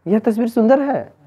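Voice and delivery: high-pitched amazed exclamation; marvel, then drop at the end; surprise. Shown as a demonstration. Teacher demonstrating wonder to students, surprised. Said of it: "आश्चर्य हो रहा".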